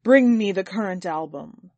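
loud order to a servant; calling out. A narrator's reading. Master to his servant after prayer, calling out. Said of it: "he called out to the servant again".

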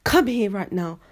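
loud commanding snap; loud bossy command at a pupil; bossy teacher order. Retold or imitated. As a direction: bark it like a strict dinner lady. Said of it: "Sis would be like".

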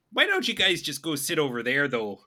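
Minnesota accent, mild suggestion; sing-song it slightly in Minnesota accent. Shown as a demonstration. Friend showing the overlap with Canadian, Minnesota accent. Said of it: "it's just the Minnesota accent".

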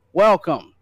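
big booming welcome; grand entrance announcement. Acted. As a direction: announce it like a ringmaster.

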